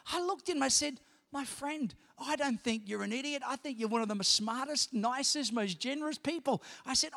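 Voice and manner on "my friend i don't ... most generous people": sincere apology. Retold or imitated. Sincere apology to hurt friend.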